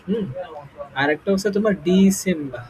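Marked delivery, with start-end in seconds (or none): 1.9-2.7 ডিসেম্বর as "dee-sem-ba"; long dee, silent r in ডিসেম্বর; British pronunciation. Shown as a demonstration. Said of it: "এইভাবে উচ্চারণ করবা". (ডিসেম্বর, শেষে "র" ছাড়া "বা")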